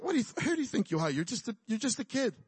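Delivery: fast, dismissive, half-acted king; scoffing Saul. Saul scoffs at young David, fast and dismissive. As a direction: brush the boy off quickly, a touch mocking. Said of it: "And Saul's like".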